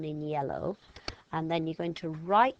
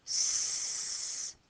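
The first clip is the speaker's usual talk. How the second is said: snake hiss. Shown as a demonstration. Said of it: "snake action".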